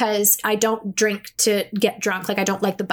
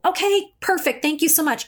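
mock relief; 6 semitones higher than usual. Relieved after imagined heavenly answer.

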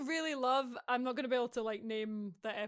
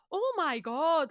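drawn-out, louder, higher mock melodrama; heightened, over the top; 5 semitones higher, 6 dB louder, slower than usual. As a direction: ham it up, stretching each word. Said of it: "heightened and over the top".

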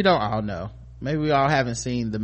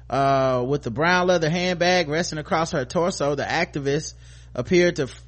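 higher, brisk-sounding news read; article read-aloud; 5 semitones higher, 4 dB louder than usual. Acted. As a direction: read the celebrity story out to listeners.

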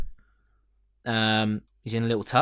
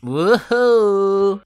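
high, loud whoop; cheer; 10 semitones higher, 8 dB louder than usual. Real, not acted. Cheering the joke about Bernards in closets, whooping. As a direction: whoop like a party.

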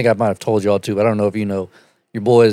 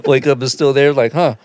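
high, laughing, mock confusion; mock puzzled host; 5 semitones higher, slower than usual. Pretend host wakes puzzled, laughing through it. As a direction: play the baffled host, cracking up.

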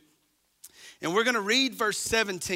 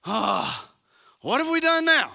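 much higher, louder mock whine; sarcastic whining; 6 semitones higher, 5 dB louder than usual. The children of Israel whining back at God, mock-innocent. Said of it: "sarcastic attitude".

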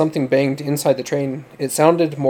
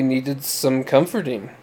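slow, mildly slurred sneer; slurred sarcasm; slower than usual. Acted. Drunk young man mocks the girls, slow slurred sarcasm. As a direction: drag it out like a tipsy mocker. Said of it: "he slurred sarcastically".

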